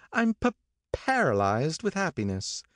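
put-on high, breathless society girl, stumbling on her words; Daisy overcome with happiness, stammering high; gushing Daisy. A narrator's reading. Daisy voiced in story.

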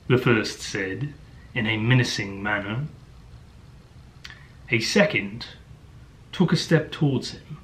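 imitation of a British audiobook narrator; British-accented story reading, hammed up; mock British narrator. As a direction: read it in a put-on British accent. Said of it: "has a strong British accent".

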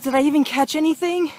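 breathless after a fight; out of breath. Real, not acted. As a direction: talk while catching your breath. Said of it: "I'm out of breath".

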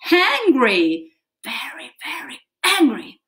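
mock angry teacher voice; playful pretend anger; acting angry. Shown as a demonstration. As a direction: show the kids a grumpy face. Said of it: "I'm hangry".

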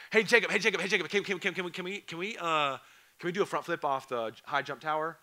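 lightly voiced kid nagging over and over; pestering kid. Student begging the pastor Jacob for a front flip, eager pleading.

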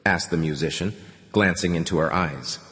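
ordinary delivery

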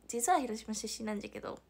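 Hiroshima dialect, "なんじゃけど" with a clear "じゃ". Shown as a demonstration. Streamer redoes the line for chat in Hiroshima dialect. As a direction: redo it in your home Hiroshima dialect. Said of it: "広島弁".

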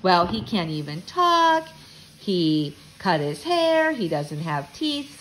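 slow, drawn-out jealous complaint; jealous older brother. Retold or imitated. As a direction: list his faults slowly, sounding jealous. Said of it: "Peter was a little jealous".

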